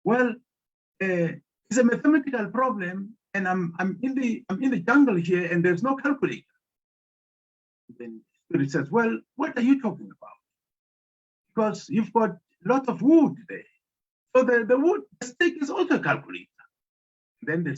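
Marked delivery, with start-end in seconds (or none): 0.0-6.5 higher, flustered explaining; woman explaining she has no calculator, higher and flustered. Acted. 8.9-16.5 higher, knowing spirit voice. Acted. Spirit answers the woman.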